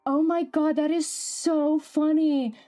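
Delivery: high, breathless laughing through the words; laughing hard. Real, not acted. Streamer cracking up at a clip, laughing. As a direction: laugh until tears come. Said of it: "I'm about to cry".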